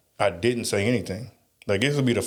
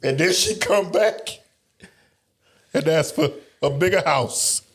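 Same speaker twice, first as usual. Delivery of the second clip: laughing along; 7 semitones higher than usual. Real, not acted. Friend laughing joins in.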